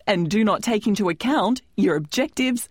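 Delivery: measured, formal scripted announcement; presenter's formal disclaimer voice; disclaimer read. Acted. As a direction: read out the legal notice clearly. Host reads scripted disclaimer.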